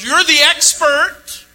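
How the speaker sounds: preacher voicing Jesus pressing the lawyer; Jesus challenging. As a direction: put the expert on the spot, slowly and pointedly. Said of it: "In other words".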